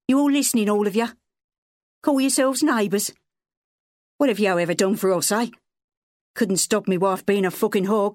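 put-on high, strained drunken yell; angry father shouting at the neighbours. A narrator's reading. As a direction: hurl it at the whole street. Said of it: "Wally yelled".

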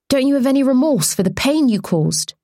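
kinder questioner. Acted. Kinder reporter asks the accused woman about remorse, gently. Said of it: "This one sounded a tad kinder".

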